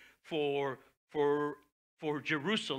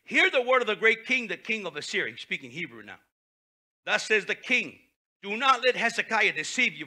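loud proclamation; 4 semitones higher, 8 dB louder than usual. Acted. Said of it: "called out with a loud voice".

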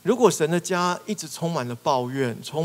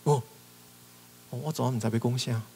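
flustered excuse; 4 dB quieter, faster than usual. Pretend. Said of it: "我们是愣住的".

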